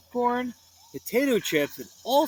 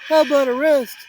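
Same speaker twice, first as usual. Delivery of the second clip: Shaggy voice; 9 semitones higher, 10 dB louder, faster than usual. Acted. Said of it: "said Shaggy".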